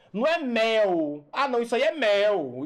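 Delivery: "mel" with an open é; open vowel contrast. Shown as a demonstration. Teacher testing how meu is pronounced, open "mel". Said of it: "ó a pronúncia".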